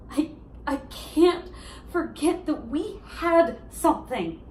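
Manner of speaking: halting, deliberate insistence; heartbroken plea. Acted. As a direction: stumble into it, then press each word. Monologue, pleading with ex-boyfriend.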